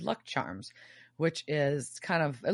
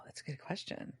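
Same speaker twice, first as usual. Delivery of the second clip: hushed conspiratorial whisper; soft whisper, almost voiceless; whispered aside; 15 dB quieter than usual. Real, not acted. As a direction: drop to a secret whisper.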